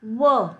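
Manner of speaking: व said alone, a short clear "wuh" sound; व by itself, stretched out; isolated sound. Shown as a demonstration. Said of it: "आप pronounce कर रहे हो व". (अकेली ध्वनि व, साफ़ और धीमी)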